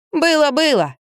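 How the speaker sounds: high, teasing giggle; a boy teasing with a giggle; giggling boy. A narrator's reading. Boy giggles at the narrator, high and teasing. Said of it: "хихикнул Кирюшка".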